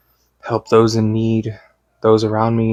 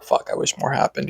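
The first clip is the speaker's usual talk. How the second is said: muttered; 3 semitones higher, 6 dB quieter than usual. Retold or imitated. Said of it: "I was like".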